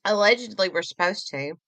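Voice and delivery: talking while chewing candy; words round a sticky candy; mouth full. Real, not acted. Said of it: "don't talk with your mouth full".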